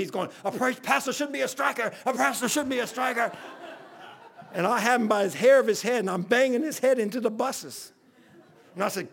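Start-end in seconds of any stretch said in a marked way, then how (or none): 0.4-3.3 higher-pitched mimicry of a protesting man; imitating quoted scripture. Seth quotes scripture while being banged, imitated protest. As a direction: chant the verse in a higher put-on voice. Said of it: "he's not yelling at me".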